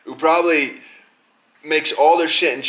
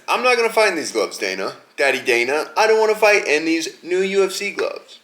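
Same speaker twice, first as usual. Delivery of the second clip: mock whiny complaint. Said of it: "and John says".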